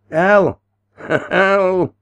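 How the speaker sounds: high, loud cackling shout; laughing cry. A narrator's reading. Old man laughs as the two rivals fight, laughing cry. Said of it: "laughed the old man".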